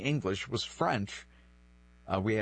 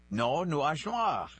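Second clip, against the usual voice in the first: put-on insistent child's retort; 5 semitones higher, slower than usual. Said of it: "And I said".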